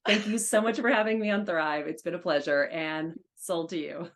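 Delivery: bang the gavel, declare it sold; auctioneer. Shown as a demonstration. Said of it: "can you give us a tidbit of your auctioneer voice".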